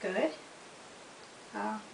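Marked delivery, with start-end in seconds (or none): 1.5-1.8 saying ahh. Shown as a demonstration. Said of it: "so you can say ah".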